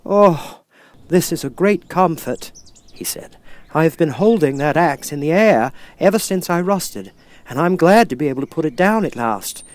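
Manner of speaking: a rusted man grateful to be heard; Tin Man. Acted.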